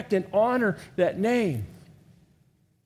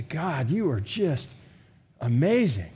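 tender prayer; 4 semitones lower, slower than usual. Shown as a demonstration. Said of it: "You say".

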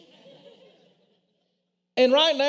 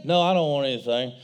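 put-on little boy's voice; 7 semitones lower, faster than usual. Boy voiced in story.

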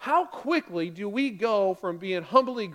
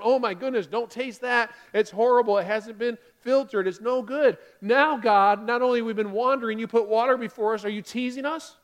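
loud, disgusted complaint; hammed-up bitter-water protest; acted disgust; 3 semitones higher, 4 dB louder than usual. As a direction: spit it out and whine at God. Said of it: "the first person taking a sip of it going".

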